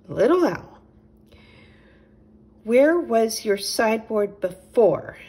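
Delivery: a gentle host offering milk; a hint of a friendly little chipmunk; Nigel the chipmunk. A narrator's reading.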